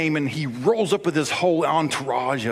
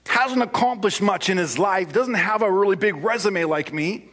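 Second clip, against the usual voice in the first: high, mock-outraged Naaman; indignant rant; 4 semitones higher than usual. Naaman complaining to his servants about the prophet, mock-indignant. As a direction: huff like an insulted celebrity. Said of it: "he went away in a rage".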